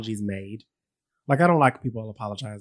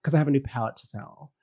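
mocking influencer voice; 3 dB quieter than usual. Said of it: "Why are you talking like that?".

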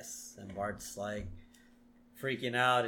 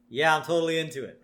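mock interest; 2 semitones higher, 3 dB louder, faster than usual. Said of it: "pretend to sort of be interested".

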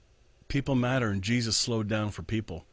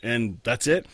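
louder, higher, mock know-it-all; imitating a closed-off believer; closed-minded certainty; 3 semitones higher, 5 dB louder than usual. Mocking the rigid believer's certainty, loudly. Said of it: "instead of saying".

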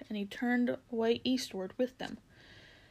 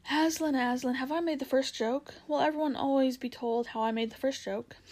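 excited jackdaw; 4 semitones higher, 3 dB louder than usual. Acted. Excited jackdaw asking Aslan.

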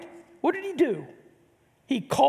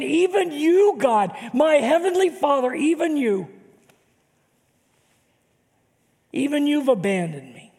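lightly voiced anguished plea, starting higher; a hint of anguish; 3 semitones higher than usual. Jesus pleading with his Father, lightly anguished. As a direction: plead and let it sink. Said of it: "And then he's saying".

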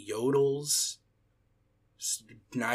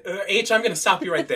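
louder, higher, quick cut-in; director's interruption; 7 semitones higher, 7 dB louder, much faster than usual. Acted. The speaker stops H's monologue, acted loud interruption. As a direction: break in fast over the performer, half laughing.

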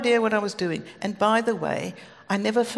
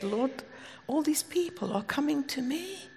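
retold plea, dropping to a whisper; hushed prayer; 4 semitones higher, 8 dB quieter than usual. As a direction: confide it to God under your breath.

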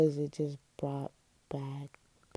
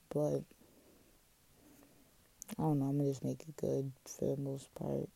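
words slightly slurred by retainer; wearing a retainer. Real, not acted. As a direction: talk around a retainer in the mouth. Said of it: "my retainer jacked up anything I said".

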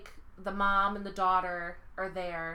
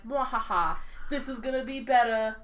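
slow theatrical villain menace; 3 semitones higher than usual. Retold or imitated. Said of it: "Tywin Lannister was like".

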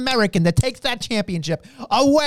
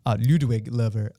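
put-on German accent; 8 semitones lower than usual. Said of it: "with the accent".

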